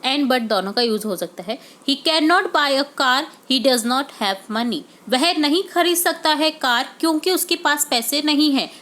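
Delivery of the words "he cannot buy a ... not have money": slow, deliberate example sentence; slow dictation read. Shown as a demonstration. Teacher reading an example sentence slowly to students. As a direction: read it out word by word for the class.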